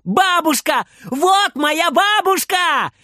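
high, slow, full-voiced child's shout; joyful high shout; shouting with all his might. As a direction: call out to grandma from the bus. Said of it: "кричит изо всех сил".

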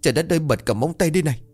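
a touch of tearful, rushed and rising; mild weeping panic, words tumbling out fast; crying while telling. Acted. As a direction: grandmother half-sobbing to her son. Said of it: "vừa khóc vừa bảo".

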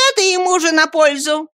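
smug agreement. Acted. Two women approve the beating, high smug voice. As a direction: cluck approvingly. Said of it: "сказали обе женщины".

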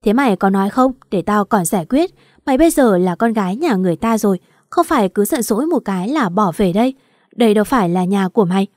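a touch of annoyed scolding, quick at the end; mild fatherly irritation, pressing her to speak; irritated father. Acted. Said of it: "cũng cáu lên". (bực bội nhẹ, giục con nói)

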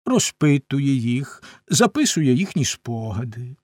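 lightly voiced geographer, emphatic and deliberate; self-important old geographer, explaining. Geographer explains his work to the little prince, lightly acted self-importance. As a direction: explain it as a mildly pompous scholar.

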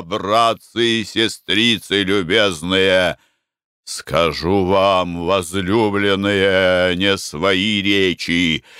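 slow, measured scripture preaching; solemn preaching. Acted. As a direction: intone each phrase slowly and gravely.

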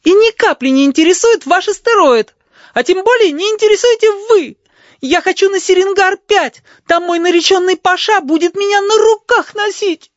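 high, loud furious tirade. A narrator's reading. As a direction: rage at him, pale with anger. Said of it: "бледная от гнева".

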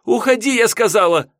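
high, loud, insistent shout; furious order. Acted. Yulka refuses to hear Misha out, furious shout. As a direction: cut him off with a piercingly high yell.

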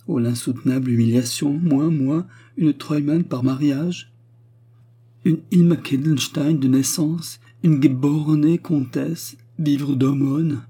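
high, drawn-out aggrieved lament; indignant exclamations. A narrator's reading. Noble widow bewailing living on charity, indignant. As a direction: stretch out each title in wounded pride. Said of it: "les exclamations recommencèrent".

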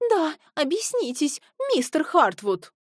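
lady demands an answer; demanding. A narrator's reading. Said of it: "потребовала леди Милбери". (требовательно, выше)

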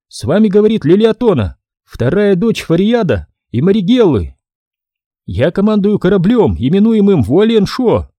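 high, otherworldly alien speaker; an unearthly voice reciting words; strange alien voice. Acted. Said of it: "Голос Лилиатоны ... звучал очень странно".

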